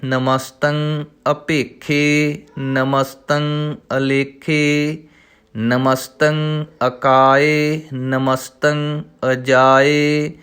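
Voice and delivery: slow, measured recital of the verse; slow devotional reading; scripture recitation. Shown as a demonstration. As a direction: recite each word slowly and clearly.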